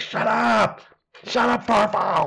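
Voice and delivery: rough, shrieking, full-volume, high, drawn-out scream. Recapping a scene where the dog Farfel barks nonstop, Jerry screaming. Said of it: "He's screaming".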